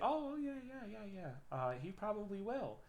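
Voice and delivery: nervous agreeing. Retold or imitated. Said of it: "And she's like".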